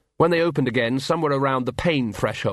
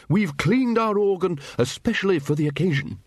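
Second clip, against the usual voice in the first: high, booming wizard showing off; higher-pitched, proud announcement; hearty Ridcully; 7 semitones higher than usual. A narrator's reading. Wizard boasts to Vimes about the wedding organ, hearty.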